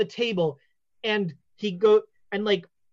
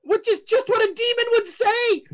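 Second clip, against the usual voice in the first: much higher, gleeful accusation; triumphant fortune teller; 11 semitones higher, 3 dB louder than usual. Acted. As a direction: catch them out, sure you're right.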